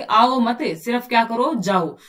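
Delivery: "आओ मत" loud, then a pause before "जाओ"; comma pause. Shown as a demonstration. Teacher reading the phrase with comma after मत. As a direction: stop hard after "आओ मत". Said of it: "यहाँ पे लगा दिया कोमा".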